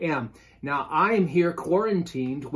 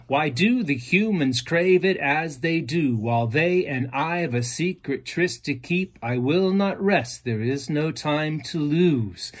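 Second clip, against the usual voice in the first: poem recital. Shown as a demonstration. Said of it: "it speaks in iambic pentameter".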